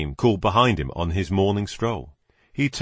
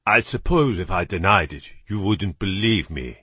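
put-on British accent. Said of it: "in an excellent British accent".

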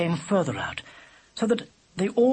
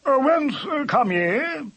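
loud, high, slow challenge; old-fashioned badger; 10 semitones higher, 5 dB louder than usual. A narrator's reading. Badger questioning the travellers' origin, booming. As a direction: boom it with antique grandeur.

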